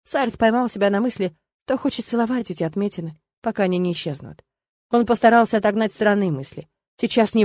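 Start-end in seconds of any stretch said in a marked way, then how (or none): none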